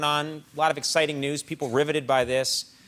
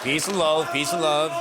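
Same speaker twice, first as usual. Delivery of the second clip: lightly voiced catchphrase of a famous drummer; a touch of Liverpool; drummer impression. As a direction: toss it off like a famous drummer, peace sign up.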